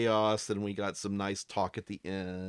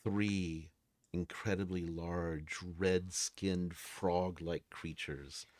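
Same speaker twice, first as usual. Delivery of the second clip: slow, measured, suspenseful scene-setting; game master narration; 2 semitones lower, 4 dB quieter than usual. A narrator's reading. Game master reveals creatures coming out of the dark, suspenseful narration. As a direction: draw out the monsters' arrival.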